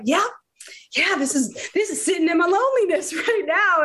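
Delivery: high, fast, laughing through it; mock lonely, chuckling; laughing self-mockery. To her friend, retelling the cooking class, laughing high. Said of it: "And I'm just like".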